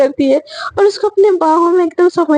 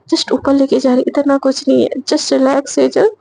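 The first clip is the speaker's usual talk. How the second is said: calming herself; 2 semitones lower than usual. Acted. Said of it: "गहरी सांसें लेती है".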